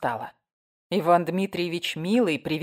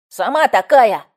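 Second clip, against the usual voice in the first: loud, higher cheeky yell; kid's retort; 5 semitones higher, 11 dB louder, slower than usual. A narrator's reading. Boy loudly shouting back at the gossip. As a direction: fling it back at her.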